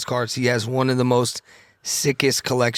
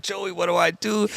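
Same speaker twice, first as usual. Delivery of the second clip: retold panic; 7 semitones higher than usual. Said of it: "I'm like".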